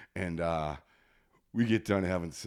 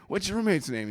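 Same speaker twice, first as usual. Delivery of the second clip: high-pitched mock dispatcher; put-on, higher operator voice; emergency operator; 10 semitones higher than usual. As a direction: imitate an operator prompting a caller.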